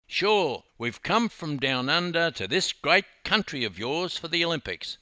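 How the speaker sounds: high, loud, chirpy reply; breezy confidence. A narrator's reading. Dawn introducing herself to the youths, breezy confidence.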